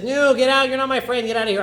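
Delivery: high furious shout; host screaming at the unwanted guest to leave; losing it. Acted. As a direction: throw him out, yelling. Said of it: "he loses it".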